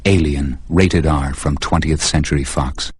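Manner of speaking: loud booming trailer announcer; horror trailer voice. Acted. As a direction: sell the terror like a movie trailer. Movie trailer for Alien.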